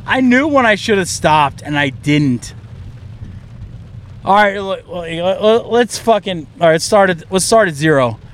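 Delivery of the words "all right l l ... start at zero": slurring and stumbling over words. Real, not acted. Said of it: "I'm very drunk right now".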